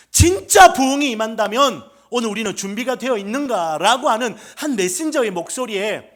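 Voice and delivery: loud, high, urgent pulpit challenge; full-force preaching. Acted. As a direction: ring it out to the whole congregation.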